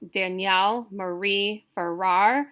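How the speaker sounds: Danielle Marie Farrar with each second syllable stressed; iambic stress. Shown as a demonstration. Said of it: "it's all iambic".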